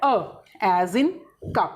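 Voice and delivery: "अ" as in "cup", short and open; short a sound. Shown as a demonstration. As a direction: stretch "अ", then "cup". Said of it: "U says अ". ("अ" धीरे, जैसे cup में)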